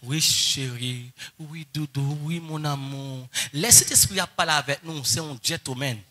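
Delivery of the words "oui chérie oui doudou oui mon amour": tender. Retold or imitated. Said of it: "comment pour parler à Marie".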